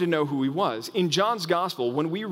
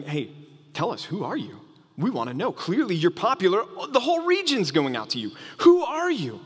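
demanding Pharisees. Acted. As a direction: press him harder line by line, ending on a cry. Pharisees questioning John.

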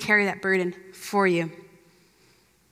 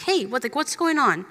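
gentle concern; 3 semitones higher than usual. Retold or imitated. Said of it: "talked to the disciples and asked them".

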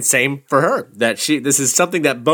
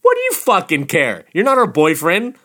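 mock indignation; 5 semitones higher than usual. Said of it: "your disgust comes from of like".

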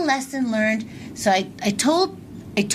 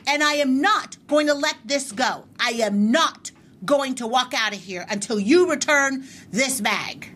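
stern, pitched-up insistence; firm demand; 3 semitones higher than usual. Retold or imitated. Demanding the clerk return the bag, stern and raised. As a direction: lay down the law to the manager. Confronting the store manager.

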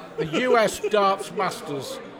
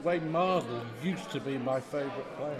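sad voice; 6 semitones lower, 8 dB quieter than usual. Acted. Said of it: "he's doing his sad voice".

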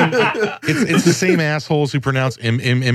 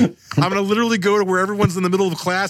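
ordinary talk

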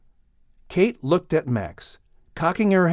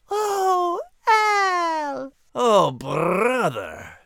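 high, choked tearful cry; teary Liz; 12 semitones higher, much slower than usual. Acted. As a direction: let it break with emotion. Liz cries.

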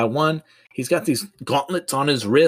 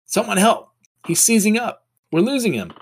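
raised, high-pitched cry for help; acted scream for help; 11 semitones higher, 3 dB louder than usual. Mary Jane calls for help for seizing Peter, acted scream. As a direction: cry out in mock panic, pitched well up. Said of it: "And Mary Jane screams".

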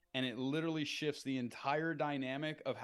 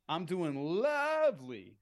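drawn-out lovely; 3 semitones higher, 4 dB louder, slower than usual. Shown as a demonstration. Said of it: "kinda weird to hear a man say he's doing lovely".

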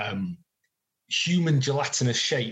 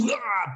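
high splattering "ah"; imitated blood burst; 7 semitones higher than usual. Game master describing the crumpled body, imitated gushing burst.

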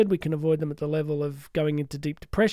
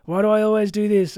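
self-critical groan; 3 semitones higher, 5 dB louder than usual. Retold or imitated. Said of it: "you get self-critical".

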